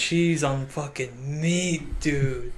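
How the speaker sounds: slow, lightly voiced stoned kid; stoner voice. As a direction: drag it out like a stoner. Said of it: "some kid was high on weed".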